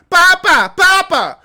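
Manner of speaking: a hint of sweet prairie girl calling papa; lightly voiced prairie girl mimicry; mocking Little House on the Prairie voice. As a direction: lightly play the innocent daughter. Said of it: "You sound like Little House on the Prairie".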